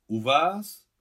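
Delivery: loud, high, rising exclamation; startled cry. A narrator's reading. Both parents learn where their son is, startled cry. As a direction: cry out the question in astonishment. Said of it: "vykřikli najednou Gulia s Miťkovým otcem".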